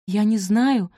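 ordinary delivery

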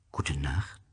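soft unvoiced snake whisper; the snake answering the prince in a low whisper. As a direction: breathe it out like a hidden snake in the sand. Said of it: "sagte die Schlange".

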